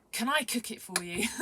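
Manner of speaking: bubbly, high-pitched eager ask; eager pleading offer. Retold or imitated. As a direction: beg keenly for the chance. Acting out her eager request.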